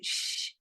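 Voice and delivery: quiet, drawn-out hush; imitated shush. Woman retelling being told to quiet her giggling, shushing. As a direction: shush softly like an unseen presence. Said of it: "something told me to shut up".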